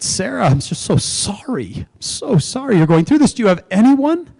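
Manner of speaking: a stranger offering heartfelt comfort; tender sympathy. Retold or imitated. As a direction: comfort her gently, voice lifting. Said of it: "and she said".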